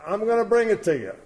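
high, loud, quick imitation of a child; twelve-year-old daughter. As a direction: pipe up fast as the helpful daughter. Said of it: "His twelve-year-old daughter says".

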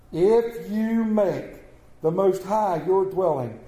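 slow, measured reading of scripture. Acted. Pastor reading Psalm 91 to the church, slow and solemn. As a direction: lay the psalm out for the congregation.

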